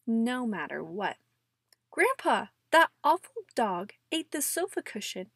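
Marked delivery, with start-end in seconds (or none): 1.9-5.3 put-on whiny kid voice. Child complaining to Grandpa.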